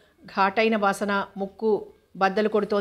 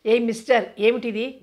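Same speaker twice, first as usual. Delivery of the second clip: a mildly raised, half-hearted roar. Acted. Narrator confronts Narahari, a mild mock roar. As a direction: narrator bellows a challenge, not full force. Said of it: "గర్జించాను".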